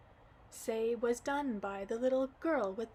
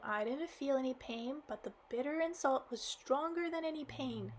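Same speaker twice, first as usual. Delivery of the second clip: put-on tearful girl.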